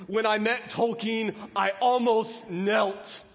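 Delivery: a hint of a grand British actor, slow and deliberate; lightly imitated British voice. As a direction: lightly mimic a British actor, drawing out the last words. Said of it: "He said in his deep British voice".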